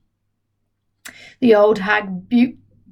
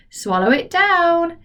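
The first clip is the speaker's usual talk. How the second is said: high, slow excited cry; cried out; 8 semitones higher, slower than usual. Acted. George cries out as he gives the medicine, high and eager.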